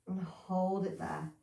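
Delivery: yawning while speaking. Real, not acted. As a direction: talk through a yawn. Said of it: "Excuse me, yawning".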